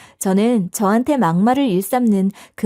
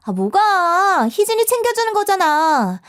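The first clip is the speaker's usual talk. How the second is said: feigned innocence; 8 semitones higher than usual. Acted. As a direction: play dumb with a sickly sweet lilt. Innocent act while bullying.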